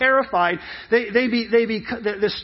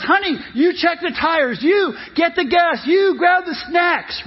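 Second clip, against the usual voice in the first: high, raised, emphatic commands; urgent dad orders; 6 semitones higher than usual. Acted. Dad at the gas stop assigns jobs, urgent raised voice. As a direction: dole out jobs like a pit crew chief.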